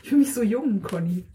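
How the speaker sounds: talking through a wheezy laugh; wheezing laugh. Real, not acted. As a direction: laugh and rattle through the words. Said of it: "rumröcheln".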